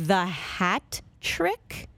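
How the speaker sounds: slow unvoiced whisper with a questioning rise; whispered realization. Son mocks his reaction to his mom's word mix-up, whispered. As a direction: whisper it as the penny drops. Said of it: "I'm like".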